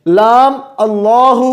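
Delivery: لام اللہ drawn out slowly, heavy ل in اللہ; Quranic recitation. Shown as a demonstration. Teacher recites the Quranic example, heavy lam. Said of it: "جن الفاظ کو رکھا گیا ہے وہ یہ ہیں".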